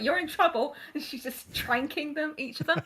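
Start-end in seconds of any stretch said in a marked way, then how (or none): 0.0-0.7 cop warning. Retold or imitated. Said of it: "the cops were like".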